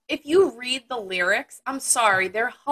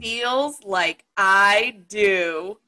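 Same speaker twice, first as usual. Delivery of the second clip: dramatic reading. Pretend. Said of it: "In your best thespian voice".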